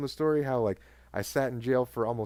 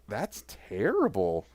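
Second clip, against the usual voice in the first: laughing mock sympathy; 3 semitones lower, much slower than usual. Cops laughing at his story.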